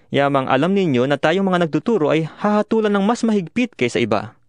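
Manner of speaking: ordinary delivery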